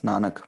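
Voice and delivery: teacher gives the right नानक; correct pronunciation. Shown as a demonstration. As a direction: model नानक with clear syllables. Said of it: "सही उच्चारण क्या होगा".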